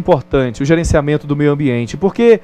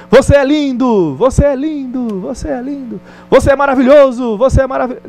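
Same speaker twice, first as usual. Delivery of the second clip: kind call echoing; 7 semitones higher than usual. Retold or imitated. Father shouts praise into the valley, echoing back. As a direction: call out kindly and let it echo. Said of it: "e grita".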